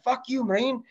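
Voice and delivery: high, hammed-up vendor curse; mock insult. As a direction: spit it at the marine. Clerk insults the marine.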